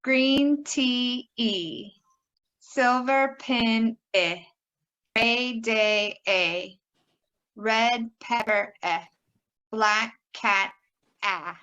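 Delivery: slow, drawn-out word pairs, then the vowel alone; measured teacher's pronunciation model; colour vowel drill. Shown as a demonstration. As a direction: model each key word and isolate its vowel. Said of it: "and the vowel sound".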